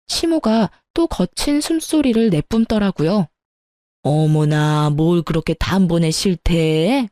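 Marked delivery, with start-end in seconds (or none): 4.0-7.1 lower, slow huffy mother-in-law; mother-in-law scolding the daughter-in-law, lower and slow; offended mother-in-law. Acted. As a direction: gasp it out like a miffed mother-in-law. Mother-in-law reacts to refusal.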